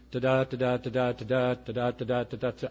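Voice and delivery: da-da da-da, weak then strong beat; iambic rhythm. Shown as a demonstration. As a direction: tap out the iambic beat like a metronome. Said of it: "iambic tetrameter simply means".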